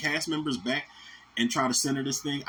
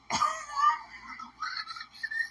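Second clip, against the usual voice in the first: high-pitched laugh; 4 dB quieter than usual. Real, not acted. Reacting to Home Alone four.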